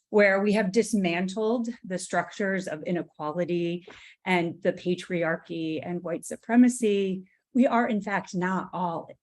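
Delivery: nervous, trembling voice; shaking voice. Real, not acted. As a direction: speak with a real nervous shake. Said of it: "My, my voice is shaking".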